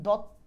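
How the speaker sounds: দত্ত cut off on the first t; half-pronounced first ত. Shown as a demonstration. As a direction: stop দত্ত short at dot. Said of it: "অর্ধেক উচ্চারণ এটা বোঝানোর".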